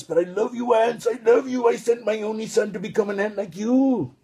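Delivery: a hint of God calling out fondly to his ants; loving God voice. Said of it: "The Lord says".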